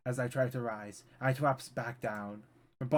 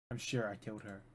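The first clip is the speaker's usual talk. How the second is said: much softer, to himself; quiet self-reassurance; softer murmured take; 4 semitones lower, 8 dB quieter than usual. Acted. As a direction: murmur it like a fading mantra. Repeated insistence.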